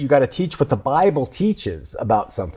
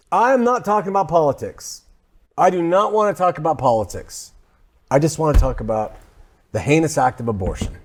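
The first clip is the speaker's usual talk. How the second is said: mock pastor's Southern accent; Southern preacher; 2 semitones higher than usual. Host playing a pastor opening his sermon, Southern preacher voice. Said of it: "always do this in a Southern accent".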